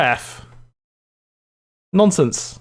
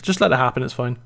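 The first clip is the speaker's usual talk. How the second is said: serial killer. Pretend. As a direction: soothe the victim like a slasher. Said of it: "talking a bit like a serial killer".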